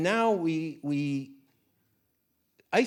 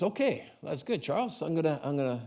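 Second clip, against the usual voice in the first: mock Italian accent; 5 semitones higher than usual. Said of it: "it's not a very good accent of him".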